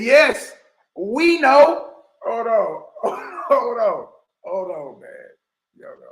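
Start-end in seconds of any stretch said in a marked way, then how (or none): 0.0-1.9 high and loud, mimicking the sidekick; squeaky mock reply. Host parroting the sidekick's reply, high and loud. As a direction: chirp it back high and loud. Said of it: "Sasa say".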